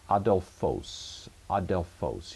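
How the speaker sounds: "adelphos" said as ah-del-fohs; model Greek pronunciation. Shown as a demonstration. Teacher giving learners the answer, "adelphos" pronounced ah-del-fohs. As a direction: demonstrate "adelphos", opening on a clear ah. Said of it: "if you came up with something like".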